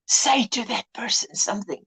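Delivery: soft echo of a whispered prompt; copied prompt. Retold or imitated. Son repeating mother's prompt to someone, softly copied. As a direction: parrot the words back quietly. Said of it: "he would go to that person and say".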